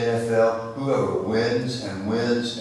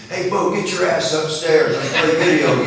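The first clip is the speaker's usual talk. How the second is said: put-on higher, louder cheeky kid barking an order; cocky grandson; 8 semitones higher, 9 dB louder than usual. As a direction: boss grandpa around like a big-brother-copying brat. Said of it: "which explains what is coming next".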